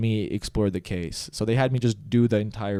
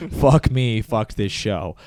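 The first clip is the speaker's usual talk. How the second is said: whisper yelling; 4 dB louder, much slower than usual. Retold or imitated. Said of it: "I was actually whisper yelling".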